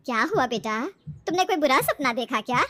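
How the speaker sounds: a touch of motherly concern. Acted. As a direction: ask like a mother checking on her daughter. Mother questions her frightened daughter. (फ़िक्रमंद माँ का सवाल)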